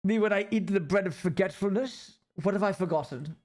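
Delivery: put-on, exaggerated English accent; overly British accent. Streamer keeping the accent going while chatting to viewers, overly British accent. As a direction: keep up the overdone British accent. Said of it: "Surprised the accent out of me".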